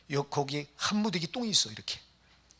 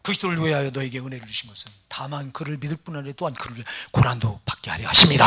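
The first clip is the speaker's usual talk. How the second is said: scripture recitation; 5 semitones lower, 6 dB louder than usual. Real, not acted. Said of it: "뭐라고 말해요?".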